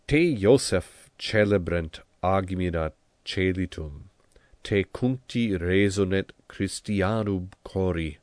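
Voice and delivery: measured, careful reading of Latin poetry; recited Latin verse. Shown as a demonstration. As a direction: read it out like prose, clear and even. Reads the Latin hymn text.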